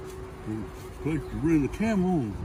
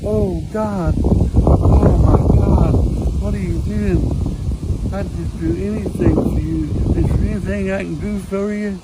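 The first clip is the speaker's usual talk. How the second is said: loud, high exclamation of astonishment; awestruck nun; 5 semitones higher, 8 dB louder than usual. Acted. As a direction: gush in awe at meeting God, voice raised. Nun startled by "God" in joke.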